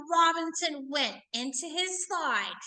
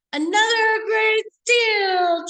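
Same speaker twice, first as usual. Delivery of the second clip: excited exclamation; 8 semitones higher, 8 dB louder, slower than usual. Real, not acted. Teacher exclaims over the book.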